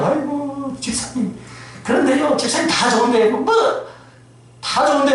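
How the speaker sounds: high, mock complaining voice.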